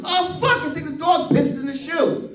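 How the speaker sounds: the dad discovering his wet shoe; dismayed son-in-law. Retold or imitated.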